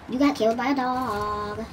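drawn-out high gloating taunt; slow mocking taunt. Real, not acted. Gamer dog taunting the player he killed, slow and high. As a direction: rub it in slowly, teasing the loser.

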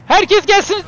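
high, loud summons; calling out. Real, not acted. Gamer calling all players to come, loud shout. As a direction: shout to gather everyone. Calls everyone over.

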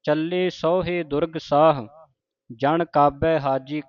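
slow, measured chanting of the verse; scripture recitation. Shown as a demonstration. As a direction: recite it slowly with pauses. Slow recitation of Chandi di Var.

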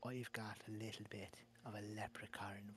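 whispered joke. Pretend. Joking about his accent.

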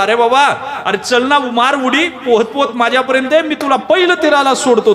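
friendly boatman shouting across floodwater; boatman calling out. Acted. Boatman calling to stranded man.

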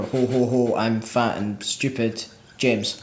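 very slow, lightly voiced oaf; mock jolly oaf. Extending the joke name, understated jolly oaf. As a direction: plod through it with a hint of ho-ho jolliness.

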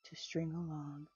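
measured, gentle poetry recital; poem reading. A narrator's reading. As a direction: read the verses unhurried, savoring each line. Reads Dorothy Parker poem aloud.

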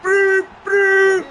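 high, loud celebratory shouting; ecstatic goal celebration. Real, not acted. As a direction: yell the scorer's name and whoop wildly.

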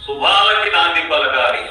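stretched phrases, each falling away at the end; poetic declamation. Acted. Host introducing the poet's title "let the beginning be sounded", poetic declamation. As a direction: declaim it in ringing, measured phrases.

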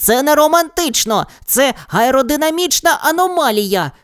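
high, alarmed protest; a nerdy boy panicking in midair; mild mock panic. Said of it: "запанікував Женя".

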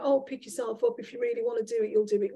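breezy mock pep talk, pitch jumping high on really; mock blasé advice. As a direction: toss it off like cheap encouragement. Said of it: "blasé, throwaway comments".

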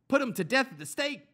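high, loud furious yell; mob yell. Acted. Crowd yelling at Pilate for execution, high and loud. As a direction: scream for his death. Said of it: "they yelled".

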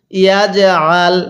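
"ইয়াজ আল" with a push on the "j"; bounced jim. Shown as a demonstration. Teacher demonstrates qalqalah, "ইয়াজ আল" with pushed j. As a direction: release the "জ" of "ইয়াজ আল" with a small bounce. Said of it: "জিমের মধ্যে আমরা ধাক্কা দিয়ে পড়ব".

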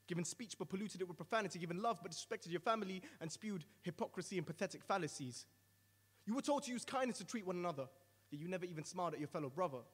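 a mild threatening tone, mostly spoken; threatening roar. Acted. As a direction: list the sins with steady menace. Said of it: "responds with a threatening roar".

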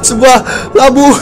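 high nervous laugh after a fright; startled laughter. Real, not acted. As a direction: laugh off the scare. Kaget lalu tertawa. (tawa gugup setelah kaget)

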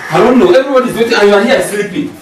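exasperated scolding. Acted. Scolding the sleeping director.

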